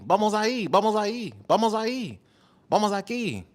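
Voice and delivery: high, careful Spanish pronunciation of "Vamos ahí"; trying out Spanish. Shown as a demonstration. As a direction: test "Vamos ahí" in a sing-song Spanish lilt. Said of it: "Or is it vamos".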